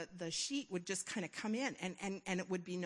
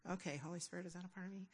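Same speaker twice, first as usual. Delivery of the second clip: quiet prayer; 9 dB quieter, much faster than usual. Retold or imitated. Quietly asking the Holy Spirit.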